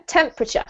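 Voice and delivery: "temperature" with stress on TEMP, middle syllable swallowed; model pronunciation. Shown as a demonstration. Teacher prompting student to repeat, clear model "temperature". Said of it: "That's better".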